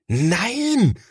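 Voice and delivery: high, sharp no; older brother calls out firmly; calling out. A narrator's reading. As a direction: stop him with a shout. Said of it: "ruft Thomas".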